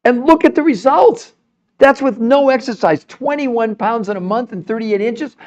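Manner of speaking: proud salesman hype; excited. Real, not acted. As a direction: sell the results with pitch-high excitement. Shows off diet results.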